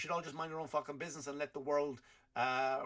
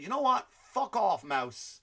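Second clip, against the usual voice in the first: mock angry DeSantis; 3 semitones higher than usual. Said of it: "DeSantis said".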